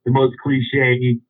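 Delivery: very slow, stretched-out emphasis; drawn out. Real, not acted. Telling friends about the girl, slow drawn-out emphasis. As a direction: drag each word out for effect.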